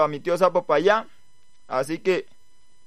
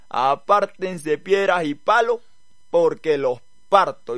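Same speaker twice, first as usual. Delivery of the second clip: 1 slow solemn warning; slower than usual. Acted. Toad's prayer before jumping.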